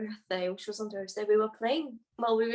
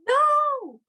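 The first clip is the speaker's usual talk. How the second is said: loud protest; 10 dB louder than usual. Real, not acted. Denies drawing circles.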